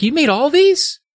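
high-pitched, incredulous squeak; amazed question. Acted. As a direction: play astonishment, voice jumping right up. Jerry amazed at Toggle.

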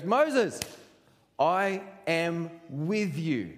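frustrated high call on the name, then slow, drawn-out words; exasperated reassurance, spelled out slowly; acted divine frustration; God. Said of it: "God just gets frustrated and goes".

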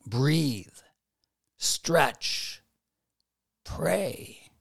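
soft whispered instructions; whispering. Acted. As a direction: breathe the words out gently. Listing calming practices.

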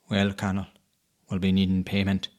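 loud, menacing demand; menacing cat. Acted. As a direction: demand payment like a sly beast. Big cat demands payment.

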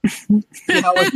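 slow, high, lightly seductive line. Acted. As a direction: draw the words out to tempt her. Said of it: "he said sound seductive".

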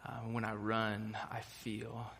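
a hint of a Scottish accent, fading soft at the end; light Scottish accent. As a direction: quote the film line in a touch of Scottish brogue. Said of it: "You heard my Scottish accent come out a little bit there".

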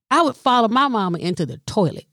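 ordinary delivery

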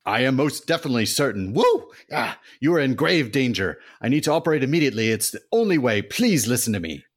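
high, loud hammy doctor voice; earnest doctor son. Acted. Son tells his mother he must operate, high and hammy. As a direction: deliver the diagnosis with melodrama.

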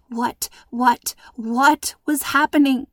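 breathless whispered panic; scared whisper to herself; panicked whisper. Acted. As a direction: whisper it in rising fear. Panicked inner thought.

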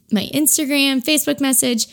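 hiccuping between words; speaking through hiccups. Real, not acted. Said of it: "I have the hiccups now".

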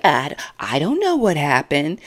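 a hint of innocent shrugging; mock shrug. Brian shrugs off the fight with a smirk, lightly. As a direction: play dumb with a smirk. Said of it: "shrugs his shoulder like".

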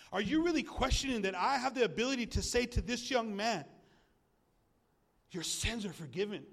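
earnest challenge as Jesus; challenging Jesus. Retold or imitated. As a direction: confront the doubters.

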